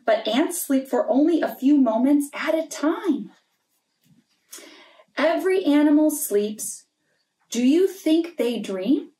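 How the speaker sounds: gentle storybook read-aloud; story reading for children. Acted. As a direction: read it like a bedtime picture book. Reading a picture book aloud.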